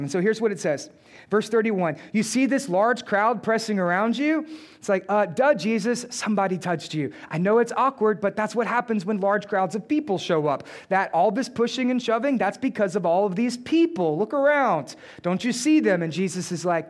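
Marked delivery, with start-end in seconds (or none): 2.1-4.5 lightly sarcastic disciple questioning his master; mild sarcasm. Acted. Peter answers Jesus's question before the crowd, mildly sarcastic. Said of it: "read it with a little bit of sarcasm". 5.1-16.0 mock "duh" explanation of the obvious; sarcastic disciple. Peter tells Jesus that big crowds jostle, lightly sarcastic. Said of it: "read it with a little bit of sarcasm".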